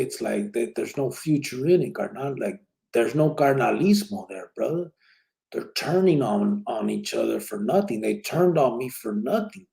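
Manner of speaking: pleading argument, pitch climbing toward the end; retold exasperated plea. Speaker urging his brother to leave that life, exasperated plea. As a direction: reason with a homeboy, mildly worked up.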